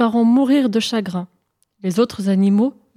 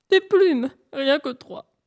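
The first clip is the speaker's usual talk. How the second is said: high, pleading little voice; whimpering; 5 semitones higher, slower than usual. Acted. Hare coaxes Pan for three feathers, whimpering. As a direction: coax in a raised, weepy voice.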